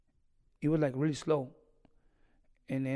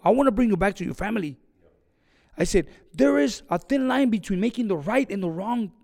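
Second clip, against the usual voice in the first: raised, higher, louder retold lecture; firm insistence; 4 semitones higher, 4 dB louder than usual. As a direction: lay down the law to your fighter, voice up. Coach firmly refusing his fighter.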